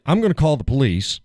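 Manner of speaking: mock nurse threat. Man mimicking the nurse to the listener. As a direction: sneer out her threat to call police. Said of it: "You don't say".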